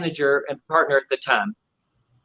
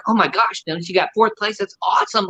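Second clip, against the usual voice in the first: elated dad; 6 semitones higher than usual. Retold or imitated. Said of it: "he was just elated".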